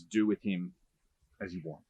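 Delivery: resigned hand-off. Retold or imitated. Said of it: "And he says".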